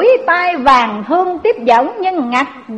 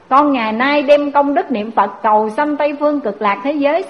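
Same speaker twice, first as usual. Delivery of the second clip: put-on old woman praying. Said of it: "bà Tám mới chắp tay lại".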